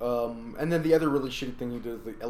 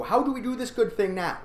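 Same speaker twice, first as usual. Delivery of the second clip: high mock question; 10 semitones higher, 3 dB louder than usual. Acted quote of people asking.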